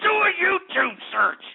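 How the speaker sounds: exasperated outburst. Real, not acted. Host scolding his audience to do a search, exasperated. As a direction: snap the order out in exasperation.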